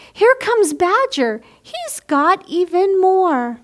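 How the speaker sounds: put-on lively picture-book read-aloud for children; bright storybook narration; story reading. A narrator's reading. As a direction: read it like storytime for little ones.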